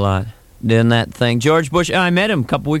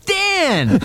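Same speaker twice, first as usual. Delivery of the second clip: a much higher call, Dan!. Retold or imitated. Seeing Quayle in the Oval Office, a high blurted call. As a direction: blurt the name, high and sudden. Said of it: "without thinking, I went".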